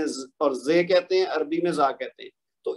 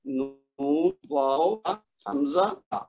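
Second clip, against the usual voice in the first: reciting the alphabet; 2 semitones lower, much slower than usual. Shown as a demonstration. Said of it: "میں اگر اس کو quickly پڑھ بھی دیتا ہوں".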